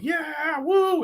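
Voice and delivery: veel hoger, spottend gejuich; mock cheer. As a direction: juich het spottend na, zoals iedereen toen. Retelling the January pump hype.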